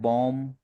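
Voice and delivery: "बॉम" ending on M, no B; silent final B. Shown as a demonstration. Teacher showing a student silent letters, "बॉम" without final B. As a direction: close "बॉम" on the M sound, B unsounded. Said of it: "बी silent है".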